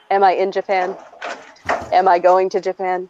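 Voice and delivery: dry, offhand rhetorical questions; deadpan teasing tone. Retold or imitated. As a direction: tease them lightly without pushing. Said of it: "this is the exact tone".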